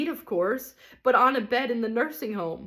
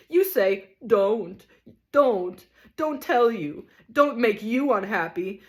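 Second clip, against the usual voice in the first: loud, higher bitter mockery; ranting tragedian; 4 semitones higher, 4 dB louder than usual. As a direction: throw her words back at her. Tragedian rant.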